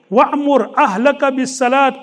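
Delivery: fast recited Arabic verse; rapid Quranic recitation. Acted.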